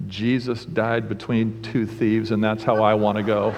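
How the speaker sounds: dying man's weak voice. Acted. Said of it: "with a weak voice said".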